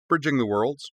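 breezily matter-of-fact, pitched a little high. A narrator's reading. Korra answering a panicking Tenzin, matter-of-fact. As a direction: state it as if obvious. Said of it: "Korra told Tenzin matter-of-factly".

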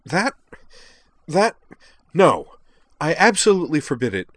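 high, loud, spluttering then emphatic tirade; outraged forbidding. A narrator's reading. Liza forbidding her club member to join duelists, outraged. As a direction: lay down the law in fury.

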